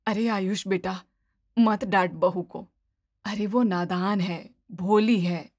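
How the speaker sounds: gently shield the bahu; protective mother-in-law. Acted.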